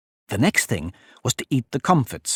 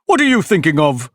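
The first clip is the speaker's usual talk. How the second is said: higher, stern demand; severe; 4 semitones higher, 4 dB louder than usual. A narrator's reading. Mouse questions inattentive Alice, severely. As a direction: demand it like a cross teacher. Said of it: "said the mouse to Alice severely".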